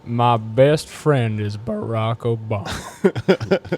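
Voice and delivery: slow, folksy cookie commercial voice, drawn out; mock cookie ad voice. Podcast host jokes a cookie commercial for his co-hosts, slow mock ad read. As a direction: sell the cookies like an old-timey ad announcer. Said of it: "do that voice".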